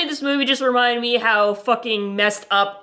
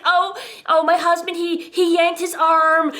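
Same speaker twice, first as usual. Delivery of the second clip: nervous excuse-making wife; 6 semitones higher than usual. Retold or imitated.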